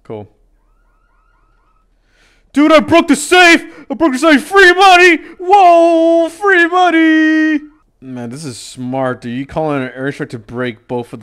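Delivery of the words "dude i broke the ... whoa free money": excited shout. Real, not acted. Safe cracked, cheering.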